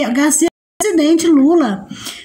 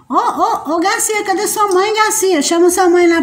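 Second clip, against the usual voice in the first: higher sing-song calling voice; 4 semitones higher than usual. Real, not acted. Mother calls to her little son Garcia, high and playful.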